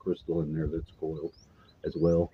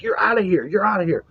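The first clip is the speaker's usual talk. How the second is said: high squeaky voice of angry little gnomes; a much higher mock gnome voice shooing someone off; 13 semitones higher than usual. Gnomes telling the man to get out, high squeaky gnome voice. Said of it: "And they're like".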